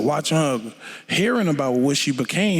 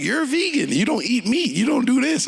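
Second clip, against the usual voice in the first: imitating friends; 10 semitones higher than usual. Friends explaining veganism, imitated.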